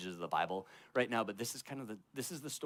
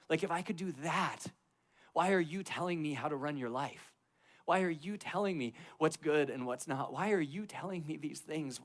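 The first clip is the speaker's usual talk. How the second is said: 1 God confronting Job; 4 semitones higher than usual. Retold or imitated.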